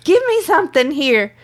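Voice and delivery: mock exasperated pleading at a silent husband; exasperated plea. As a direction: beg him to say anything. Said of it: "I'm like".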